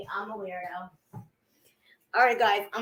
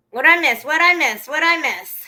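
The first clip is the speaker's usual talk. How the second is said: eager asking; 3 semitones higher, 9 dB louder than usual. Real, not acted. Asking chat what happened.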